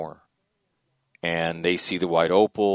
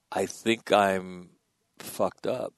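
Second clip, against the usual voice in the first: voicing kid's despair; much slower than usual. Voicing the kid's unspoken look.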